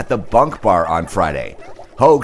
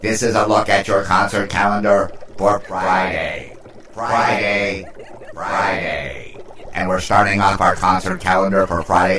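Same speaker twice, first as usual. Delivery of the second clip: otherworldly broadcast from space; alien voice. Pretend. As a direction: address the earthlings like an alien. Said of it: "Okay, no more alien voice".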